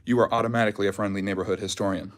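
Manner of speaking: short of breath after jogging; catching breath while talking. Real, not acted. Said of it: "excuse me for my shortness of breath".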